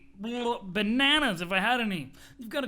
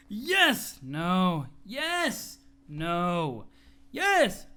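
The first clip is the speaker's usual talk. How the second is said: insistent yell; much slower than usual. Acted. Yes-no shouting match.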